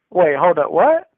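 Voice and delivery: a stunned, squeaky what; shocked disbelief. Retold or imitated. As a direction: cellmate thrown by the rape talk, yelps in disbelief. Cellmate shocked by his claim.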